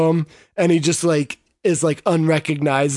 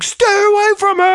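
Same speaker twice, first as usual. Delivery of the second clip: high-pitched mock yell; hammed-up, high warning shout; imitated yelling; 4 dB louder than usual. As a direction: yell it like a retold warning in a fight. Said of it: "he's, like, yelling, like".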